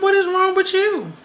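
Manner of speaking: high, slow incredulous question; mock shocked. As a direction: gasp it out in disbelief. Shocked at sister hobbling in.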